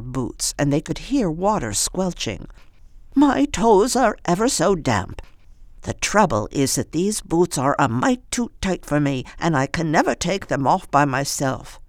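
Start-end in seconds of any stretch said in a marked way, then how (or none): 3.1-11.8 put-on old woman voice.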